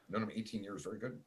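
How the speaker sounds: muffled, gurgly audio; underwater gurgling voice. Real, not acted. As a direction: voice sounding under water. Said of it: "You sound like you're underwater".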